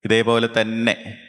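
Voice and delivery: measured meditation voice with long pauses; guided meditation. Real, not acted. Teacher bringing children out of meditation, measured guiding voice. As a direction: ease them out of meditation, phrase by phrase.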